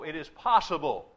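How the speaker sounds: "possible" picked out with deliberate weight; stress on possible. Real, not acted. Preacher cautioning listeners about his archangel theory, stressing "possible". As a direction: lean on the word "possible". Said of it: "I stress the word possible".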